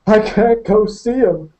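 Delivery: high, slow, gasping sob; gasped. Acted. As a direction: choke it out between sobs. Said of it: "he gasped".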